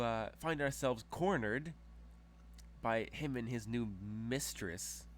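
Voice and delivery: a hint of a scornful noblewoman indignant at slander; haughty noblewoman. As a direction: play the affronted aristocrat brushing off blame. GM voices Diana, haughty noble.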